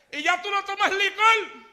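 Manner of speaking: mocking old friend. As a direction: scoff at the new believer. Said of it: "se reía de mí".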